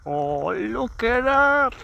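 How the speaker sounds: delighted exclaim. Real, not acted. Coffee brewing on hillside.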